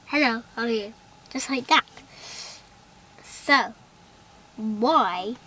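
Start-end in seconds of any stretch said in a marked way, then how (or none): 0.1-0.9 muffled through a hand; hand over mouth. Shown as a demonstration. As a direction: say it behind your palm. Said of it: "Like this".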